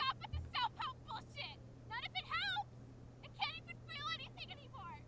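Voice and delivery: angry shouting. Acted. Trapped girl screaming at captors.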